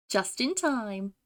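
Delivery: put-on slow British-accented catchphrase; put-on British, drawn out; fake British accent. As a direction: deliver it as a British game heroine. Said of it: "do a fake British accent".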